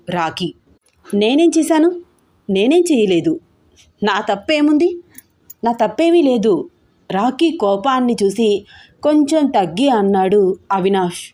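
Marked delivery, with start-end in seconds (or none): 1.1-6.5 indignant protest. Acted. Rakhi angrily defending himself.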